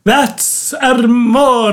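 put-on slow, drawn-out Italian accent. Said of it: "Do you like my Italian accent?".

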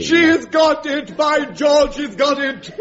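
hammed-up Higgins triumph; triumphant teacher. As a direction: crow with delight at the pupil's success. Teacher triumphs over pupil.

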